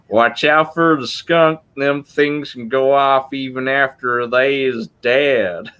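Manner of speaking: slow, drawn-out Southern redneck drawl; Cletus the redneck. Retold or imitated. Cletus warning Lisa about the roadkill skunk, slow Southern drawl. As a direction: warn her lazily like a backwoods hick. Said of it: "He's like".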